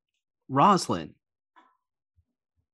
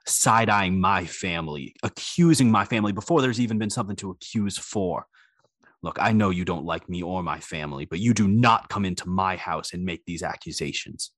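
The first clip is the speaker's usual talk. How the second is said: stern host voice; 5 semitones lower than usual. Acted. NPC Tennyson scolding Redmond.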